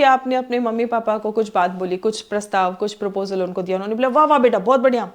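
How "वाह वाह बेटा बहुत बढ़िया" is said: mock parent's hearty, louder praise; lightly acted enthusiastic go-ahead; highly optimistic approval. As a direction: cheer the child on as an approving parent. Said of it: "highly optimistic था".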